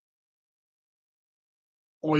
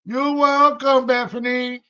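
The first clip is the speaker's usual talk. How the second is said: cheerful; 5 semitones higher than usual. Real, not acted. High cheerful thanks to viewer.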